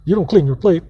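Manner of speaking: imitating scolding aunt. Aunt scolding nephew over his plate, mock angry nagging. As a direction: mimic her nagging with some heat. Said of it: "this motherfucker, like".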